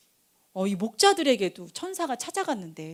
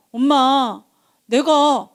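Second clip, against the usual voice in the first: put-on child calling Mom; 3 semitones higher, 7 dB louder, much slower than usual. Child telling mom about the day, calling out. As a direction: call out to Mom like an eager child.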